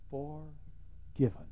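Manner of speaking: very slow, stretched; drawn out. Acted. Preacher stretching forgiven slowly. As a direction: linger over it.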